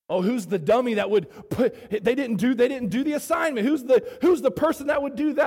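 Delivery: excited, rising mock jeer. Boys in class ridicule whoever left an egg empty, mocking. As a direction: jeer like little boys piling on. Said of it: "started mocking".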